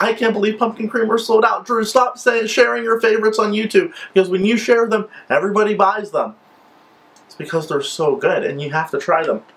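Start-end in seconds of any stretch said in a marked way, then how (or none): 0.0-6.4 higher, mock-upset friend's voice; lightly voiced friend griping to Drew; imitating Charity. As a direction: play the fan complaining that favorites sell out. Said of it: "she was like".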